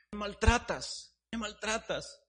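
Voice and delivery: a touch of a whiny, high, slow teacup; light plaintive teacup voice; complaining teacup. Acted. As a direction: complain mildly. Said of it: "Y yo le empecé a decir".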